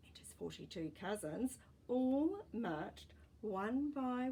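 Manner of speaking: gentle, even storybook reading; story narration. A narrator's reading. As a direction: read it like a bedtime story for kids. Reading a picture book aloud.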